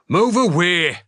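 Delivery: sharp high shouted warning. Acted. Sergeant Revere warns troopers off the chute, shouting. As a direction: bark it out over the shelling. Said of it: "shouted Revere".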